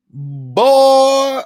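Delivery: high, loud exclamation; outraged shout. Real, not acted. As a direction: blurt it out in outrage. Recalling the live show in outrage.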